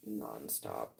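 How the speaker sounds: slow, low, through a yawn. Real, not acted. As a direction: talk while yawning. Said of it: "because I keep yawning".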